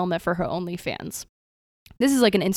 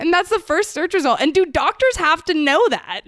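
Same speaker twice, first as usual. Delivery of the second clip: higher, louder, through laughter; laughing disbelief; 8 semitones higher, 5 dB louder than usual. Real, not acted. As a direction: giggle out the question in disbelief.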